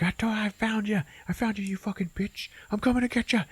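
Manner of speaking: high, whispered menacing threat; whispered movie-villain threat; creepy villain whisper. Retold or imitated. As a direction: hiss it like a stalking villain. Villain Douche chasing them.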